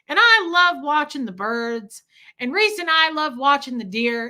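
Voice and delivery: imitated old man's earnest, slightly loud prayer; Fred. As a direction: pray aloud with simple sincerity. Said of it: "it was sincere. He wasn't being funny".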